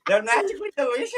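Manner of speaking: quick mock-Irish slogan; Irish accent. Performer copying the friend's slogan, quick Irish accent. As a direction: rattle it off in a cereal-mascot brogue. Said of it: "Addie's in charge of the Irish accent now".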